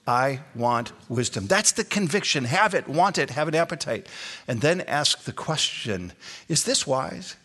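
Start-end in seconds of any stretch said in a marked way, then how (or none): 0.1-1.5 "I want wisdom" slow, each word set apart; deliberate three-word declaration. Shown as a demonstration. Pastor modelling three words for listeners to say, slow deliberate "I want wisdom". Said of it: "Say those three words". 6.5-7.3 "Is this wise" with a slight questioning lift; pointed questioning inflection. Shown as a demonstration. Pastor showing the congregation his inflection, light questioning lift on "Is this wise". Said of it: "Do you notice my inflection".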